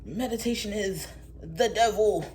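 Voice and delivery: lightly mocking alarmed voice; a hint of a scandalized believer; ignorant critic. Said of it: "Someone said something ignorant".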